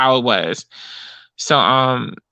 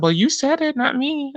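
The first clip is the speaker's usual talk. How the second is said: mock gentleman; 12 semitones higher than usual. Man voiced in retold story.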